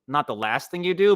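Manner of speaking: ordinary talk, nothing marked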